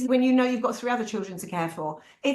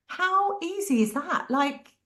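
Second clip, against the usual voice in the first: amazed; 5 semitones higher, slower than usual. Real, not acted. Marvelling at simplicity.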